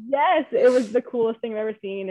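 speaking through happy tears; teary joy. Real, not acted. Mother recalling first sight of her baby, through tears. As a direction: let real emotion crack through.

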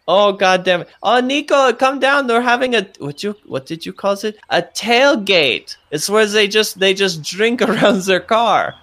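excited call upstairs. Acted. Franz calling up to Nico about the tailgate, excited and high. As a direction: rush to tell Nico the news.

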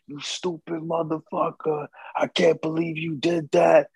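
a retold high-pitched chewing-out; angry quarrel. Couple arguing over grease fire.

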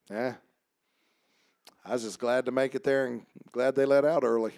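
numb. Acted. Preacher mimics a tired churchgoer after service, numb and indifferent. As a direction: lightly act out a churchgoer who barely cares. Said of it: "sometimes you're just numb".

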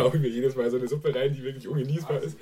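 recovering from chili heat mid-sentence; mouth burning from spicy food. Real, not acted. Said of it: "ich muss jetzt noch ein bisschen klarkommen".

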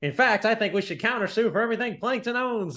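lightly voiced greedy boss, pitched high; a quick grab at Krabs sounding money-hungry. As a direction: friend acting out Mister Krabs's greedy line. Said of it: "And he's like".

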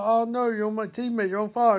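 high-pitched, retold panic; hammed-up dismay, voice lifted; mock freak-out. Captain seeing his teammate on fire, mock freaking out. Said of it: "So he starts freaking out".

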